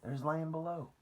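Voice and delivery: high, loud, slow call; shout. A narrator's reading. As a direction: call out the sighting from the lookout.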